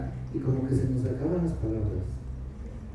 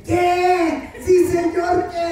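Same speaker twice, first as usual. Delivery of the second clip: much higher, louder startled squeak; mock confused answer; 8 dB louder, much slower than usual. Pastor joking how God hears mumbled prayer. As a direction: play God answering, baffled. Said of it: "yo creo que se dice".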